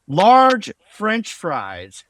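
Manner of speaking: large French fries drawn out very slowly, dripping sarcasm; sarcastic slow reading of a bland menu pick; mocking drawl. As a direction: drag out large French fries like it's absurdly boring.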